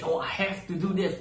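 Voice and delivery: lifted, eager take on a chore; bright keen version of the line; excited. Shown as a demonstration. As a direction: say it like you can't wait to start. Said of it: "and they sound, like, very excited".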